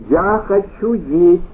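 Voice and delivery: loud, slow hungry shout; a tired husband shouting for food; shouted demand. A narrator's reading. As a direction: yell it at her, slow and loud. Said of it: "крикнул он".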